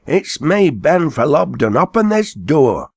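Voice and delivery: high, slow plea naming himself; pleading call. A narrator's reading. Ben answering the haymaker, high pleading call. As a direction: beg to be let out.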